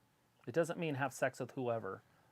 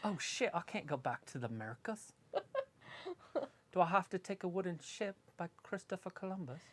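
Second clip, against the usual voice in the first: playful put-on British accent; mock British accent; 5 semitones higher, 4 dB quieter than usual. Friend joking about going back to the Americas, mock British accent. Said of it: "Travis would totally pick up the accent".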